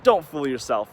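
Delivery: cutting put-down, ending loud; a mock vicious doctor, loud on the verdict. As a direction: sneer it, then slam the last words. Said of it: "Doctor Troy was a vicious character".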